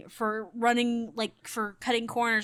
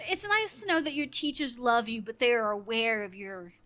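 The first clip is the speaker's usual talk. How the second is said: retold kindly euphemism, careful pause before "limitations"; gently tactful teasing. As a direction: deliver the euphemism nicely, nearly laughing. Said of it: "meaning it in a nice way".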